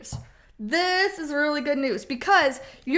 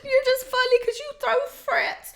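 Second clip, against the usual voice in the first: put-on much higher, teasing kid voice; kid mocking parent; 11 semitones higher, 3 dB louder than usual. Kids teasing the parent about her fits, high and teasing. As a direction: mimic a cheeky child. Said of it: "So they're like".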